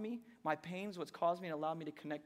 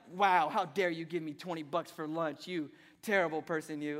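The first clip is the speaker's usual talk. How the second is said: mock outrage; 5 dB louder than usual. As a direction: act hammed-up offence at a kind gift. Acts absurd outrage at a gift.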